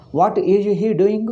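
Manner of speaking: put-on slow, drawn-out North Indian accent. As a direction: imitate North Indian-accented English, stretching the words. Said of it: "they speak in North Indian accent".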